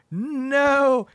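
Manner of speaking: long, high villain's "no"; mock anguished cry. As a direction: wail it like a thwarted villain. Jilted villain cries out.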